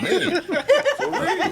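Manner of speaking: high laughing, airy; laughing squeak. Real, not acted. Laughing high about New York women.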